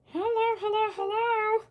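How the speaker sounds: high sing-song hellos; sing-song greeting. Real, not acted. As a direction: call hello in a high, playful lilt.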